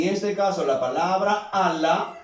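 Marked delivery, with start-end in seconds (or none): 1.5-2.2 ala said as Á-la, stress on the first syllable; penultimate stress. Shown as a demonstration. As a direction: put the weight on the opening a of ala. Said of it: "su acento es grave".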